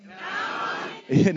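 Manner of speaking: slow, drawn-out group shout; the whole side yells it back; crowd shout. Real, not acted. Kids shouting back to the pastor, drawn-out shout. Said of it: "that was hardly fair".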